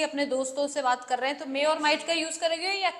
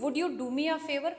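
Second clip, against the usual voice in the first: humble request; slower than usual. Shown as a demonstration. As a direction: ask humbly, with care. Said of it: "बात करने में humbleness आ गई".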